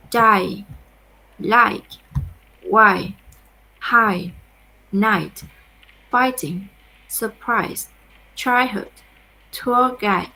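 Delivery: each word loud and separate, like a teacher modeling; model words, clearly. Shown as a demonstration. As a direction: say each word out for the class to copy. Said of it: "then you will repeat for me".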